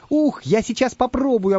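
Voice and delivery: high, eager and drawn out; can't wait to taste it; delighted. Acted. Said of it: "обрадовался шпион Дырка". (радостно, с нетерпением)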